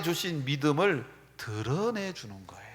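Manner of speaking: hushed, breathy aside to the congregation; whispered sermon line. Real, not acted. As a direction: drop to a whisper for the key point. Preacher drops to a whisper.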